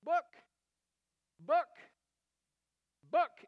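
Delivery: put-on high, loud squeaky "Book, book, book" like a two-year-old; squeaky toddler voice. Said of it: "in this squeaky voice".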